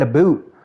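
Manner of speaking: "a boot" with a long oo in place of ow; mocked Canadian vowel. Streamer imitating Americans teasing a Canadian, "a boot" with exaggerated oo. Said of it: "I know a lot of Americans go".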